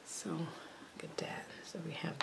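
soft unvoiced whisper; hushed whisper over the craft pieces. Real, not acted. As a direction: breathe it, barely there.

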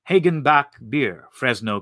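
ordinary delivery, nothing marked

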